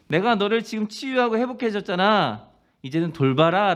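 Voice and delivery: high, loud commanding voice; firm charge. Acted. Jesus commissioning the restored Peter, firm and loud. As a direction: charge him firmly to go care.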